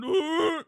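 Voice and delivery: loud, high mock creature roar; imitated Bigfoot call. Mocking documentary makers' calls, loud imitated roar. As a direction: belt out a big fake Bigfoot call. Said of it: "they do their calls and they're going".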